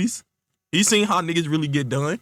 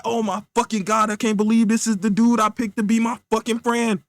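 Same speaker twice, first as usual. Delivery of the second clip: high, aggrieved lament; exasperated disbelief; 4 semitones higher than usual. Acted. Casper fed up with his friend, exasperated disbelief. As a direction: groan at your choice of friend. Casper reacts to being hung up on.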